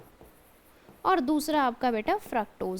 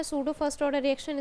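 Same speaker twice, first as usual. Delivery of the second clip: slow deliberate term; much slower than usual. Shown as a demonstration. Teacher repeats the key term.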